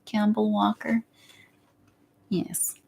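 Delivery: lightly put-on Russian voice; Russian accent. Vlogger naming a YouTuber to viewers, in a playful Russian accent. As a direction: slip into a mock Russian accent. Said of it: "I don't know why I'm doing the Russian voice".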